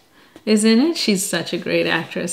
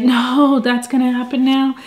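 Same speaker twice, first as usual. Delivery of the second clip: higher, caught-up protest at the screen; a husband living the movie, higher pitched; emotionally involved; 5 semitones higher than usual. Retold or imitated. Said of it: "emotionally involved".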